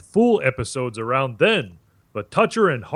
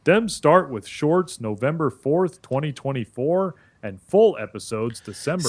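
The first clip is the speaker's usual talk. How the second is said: put-on West African pidgin English accent. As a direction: speak with a Nigerian accent. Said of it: "Stop doing the African accent".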